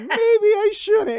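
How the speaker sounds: slow, loud, very high mock reluctance; hammed-up second thoughts; reenacted hesitation. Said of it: "it's like".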